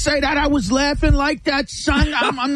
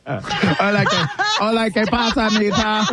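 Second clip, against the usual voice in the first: mock Spanish accent. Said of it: "Patty would put on a sombrero".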